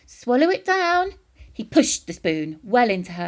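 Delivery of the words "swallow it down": much higher, louder eager push; loud excited urging. A narrator's reading. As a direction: egg her on gleefully. George urges grandma.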